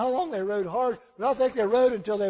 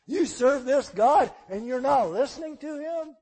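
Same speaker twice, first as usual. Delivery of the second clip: slow, incredulous challenge; frightened sailors confronting the runaway prophet; sailors confronting Jonah; 3 semitones higher than usual. Acted. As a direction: press him with each repeated question.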